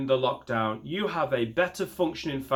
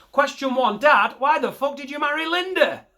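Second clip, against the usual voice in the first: much higher, louder accusing blurt; mock outburst; 13 semitones higher, 7 dB louder than usual. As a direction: hurl the question at Dad. Asks Dad his question.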